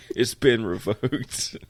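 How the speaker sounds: slow, drawn-out one-liner; deliberate, half-acted punchline; emphatic movie quote. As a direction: stretch it out for emphasis, quoting the hero. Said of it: "He's like".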